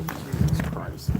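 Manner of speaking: slow, breathy exasperated whisper; exasperated breath. Real, not acted. Owner exasperated as the dog escapes, slow breathy whisper. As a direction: sigh it out in disbelief.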